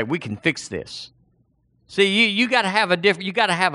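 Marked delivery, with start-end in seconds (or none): 0.0-1.1 low, much softer and certain; quiet assurance. Pretend. Preacher at a sickbed, softly reassuring. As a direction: promise it calmly, almost under the breath. Confident promise to the sick.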